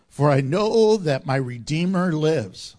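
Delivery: low, firm proclamation of faith; proclaiming Job. Acted. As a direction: declare it like Job, resolute. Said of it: "He says this".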